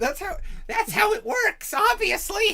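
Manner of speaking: high goblin voice, slow and smug. Acted. GM keeps the goblin's logic going, slow smug high goblin voice. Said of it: "goblin logic right there".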